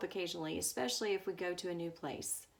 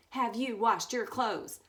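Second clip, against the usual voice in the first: slow, louder, firm mother; stern repeat; 6 dB louder, slower than usual. Retold or imitated. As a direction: spell it out, no more excuses. Mom repeats question, firmer.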